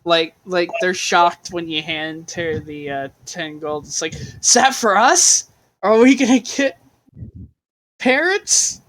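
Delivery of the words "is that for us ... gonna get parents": put-on high, loud, amazed kid; hopeful child voice. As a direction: ask it full of hope. Orphans amazed by the gold.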